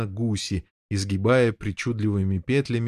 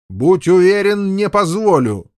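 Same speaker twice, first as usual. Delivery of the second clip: defiant shout; 7 semitones higher, 8 dB louder than usual. Acted. Fat knight shouting his refusal at Lancelot. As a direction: hurl the refusal back at him.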